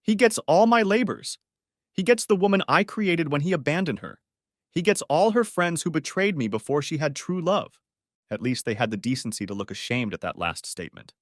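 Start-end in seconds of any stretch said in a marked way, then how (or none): 0.0-7.8 anguish bursting out. A narrator's reading. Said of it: "the pain and anguish burst out".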